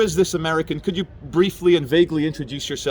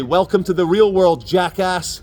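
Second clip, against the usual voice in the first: mock American catchphrase; lightly hammed-up American accent; 3 semitones higher, 5 dB louder, slower than usual. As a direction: borrow an American's punchy put-down. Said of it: "my Americanism is".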